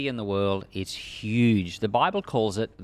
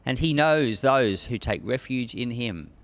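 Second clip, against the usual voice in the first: measured, solemn Bible reading; scripture reading. Acted. Reading Nahum aloud to listeners, solemn scripture reading. Reads scripture before commentary.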